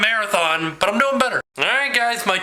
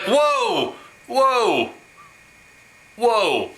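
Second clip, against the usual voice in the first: drawn-out whoas, high then stepping down; mock alarm; 4 semitones higher, much slower than usual. Imitating doctors seeing dad's swollen arm, mock alarm. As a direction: halt them with long falling whoas.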